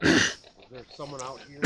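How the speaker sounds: hushed whisper into the dark. Real, not acted. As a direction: breathe the question out. Whispered question to spirits.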